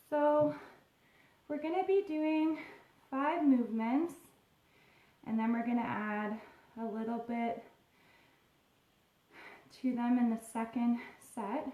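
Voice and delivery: out of breath, panting between phrases; after a workout. Real, not acted. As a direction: talk while still catching your breath. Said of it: "Sorry, I'm just catching my breath".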